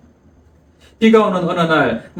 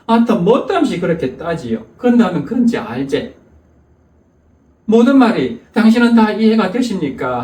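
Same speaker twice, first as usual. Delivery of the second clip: blunt Jeolla dialect; 2 semitones higher than usual. Retold or imitated. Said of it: "퉁명스러운 전라도 말로".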